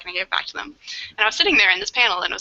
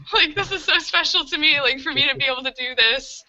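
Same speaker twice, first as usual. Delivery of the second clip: emotional; 7 semitones higher than usual. Retold or imitated. Emotional retelling, still high.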